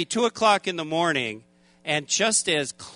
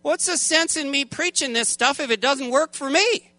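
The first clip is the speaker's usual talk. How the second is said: higher, complaining protest at God; attitude problem; 4 semitones higher than usual. Retold or imitated. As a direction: argue with God, mildly indignant. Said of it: "starting to get an attitude problem".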